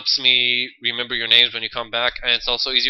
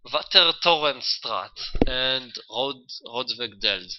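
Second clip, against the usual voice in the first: Dutch street names in a native accent; slow, native Dutch accent; native Dutch pronunciation; much slower than usual. Real, not acted. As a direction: say the place names slowly in Dutch. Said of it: "that's my true language".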